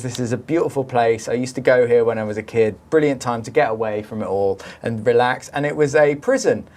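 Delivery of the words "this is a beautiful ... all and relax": reading out review. Retold or imitated. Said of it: "a review that says".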